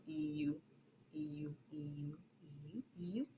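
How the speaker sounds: soft breathy E U, nearly silent; fading to a whisper; whispered mouth exercise. Shown as a demonstration. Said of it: "do it without sound".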